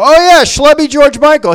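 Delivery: high, loud, drawn-out realization; sudden recognition. Retold or imitated. Audience member recalling the comic's look, excited recognition. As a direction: imitate someone suddenly remembering him.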